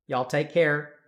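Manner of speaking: drawn-out Texan send-off; Texan accent. Shown as a demonstration. Streamer bidding viewers goodbye, Texan accent. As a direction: sign off in a put-on Texan accent. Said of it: "speaking of accents".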